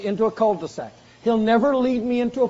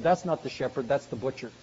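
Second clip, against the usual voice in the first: dry punchline; 5 semitones lower, 6 dB quieter than usual. Retold or imitated. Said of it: "with a big smile over his face and said".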